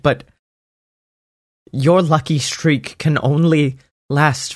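a lightly voiced elf, earnest and grave; Derby pleading. Derby begging Sammy not to go back, grave.

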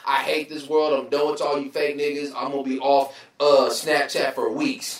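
lightly voiced melodramatic social media post; mocking people who announce quitting Snapchat; mocking dramatic poster. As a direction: sneer at a self-pitying online rant. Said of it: "I hate when people are on social media like".

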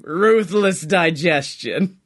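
"Ruthless Digestion" drawn out slowly like a trailer announcer; slow, weighty "Ruthless Digestion", savouring each word; dramatic title read. Shown as a demonstration. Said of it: "is the name of the game".

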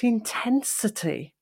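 "intensity" with a stretched middle syllable; drawn-out stress. Shown as a demonstration. Coach showing emphasis without loudness, "intensity" drawn out on "ten". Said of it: "I just did it there with the word intensity".

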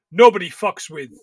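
Jesus impression. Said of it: "he was more like".

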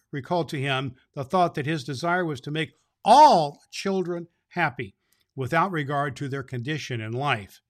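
calm read-aloud storytelling; story narration. A narrator's reading. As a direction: tell it to children gently.

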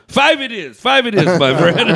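eager seller. Retold or imitated. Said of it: "He goes".

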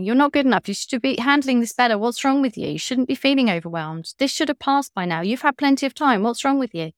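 lightly voiced nag on your shoulder; mild mock scolding from McJudgy; nagging inner critic. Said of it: "Mister Bashy and Mister Judgy on our shoulders going".

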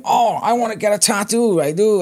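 eager pub stranger begging for a tattoo, mock voice; imitating pub pest. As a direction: lightly voice a keen drunk punter. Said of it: "starts going".

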